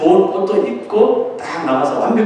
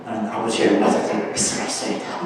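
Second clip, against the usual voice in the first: much lower, softer mock macho voice; 형 흉내 낸 굵고 낮은 목소리; imitating brother's deep voice; 8 semitones lower, 5 dB quieter than usual. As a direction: put on his big brother's deep manly voice to fool blind father. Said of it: "형 목소리를 이렇게 흉내냈을 거예요".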